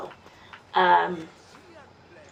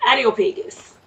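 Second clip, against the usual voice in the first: Areopagus said with a light Jamaican accent; a slight Jamaican lilt on Areopagus; 3 semitones higher, 5 dB louder than usual. Real, not acted. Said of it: "a little bit with my Jamaican accent".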